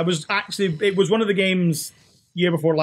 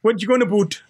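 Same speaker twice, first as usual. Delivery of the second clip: mock Canadian accent. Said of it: "making fun of our accent".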